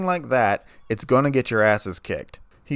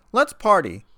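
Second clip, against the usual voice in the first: high, loud party yell; 9 semitones higher, 5 dB louder than usual. A narrator's reading. Pinkie kicking off the party for everyone, loud high yell. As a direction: shout it to the whole room. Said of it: "she yelled".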